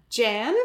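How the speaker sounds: Jan as a questioning try at Jen; unsure attempt at Jen, sounding like "Jan"; attempted short E. Shown as a demonstration. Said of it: "I know that's a short E".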